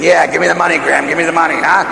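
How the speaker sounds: a mock greedy grandkid; greedy real meaning. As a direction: drop the politeness and grab for it. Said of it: "they're really saying".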